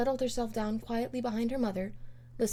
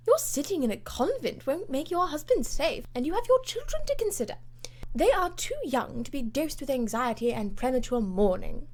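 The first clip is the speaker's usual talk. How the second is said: higher, brisk hearty scolding; jockey-like bluff lady; 5 semitones higher, 4 dB louder than usual. Acted. Lady Portarles lectures the Comtesse, hearty and high. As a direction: bluff lady setting her friend straight. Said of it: "voice and manner would not have misfitted a jockey".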